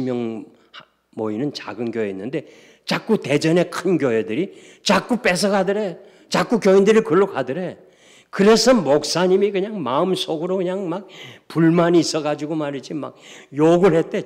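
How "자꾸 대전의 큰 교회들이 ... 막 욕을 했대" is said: raised, louder voice driving the story on; forceful preaching. Real, not acted. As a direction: preach it with mounting heat. Preaches heatedly about a resentful pastor.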